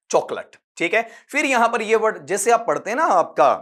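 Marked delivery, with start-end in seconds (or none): 0.1-0.6 चॉकलेट with short "lut" ending; correct pronunciation. Shown as a demonstration. Teacher closing the explanation, चॉकलेट ending in short "lut". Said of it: "ये उच्चारण है इसका".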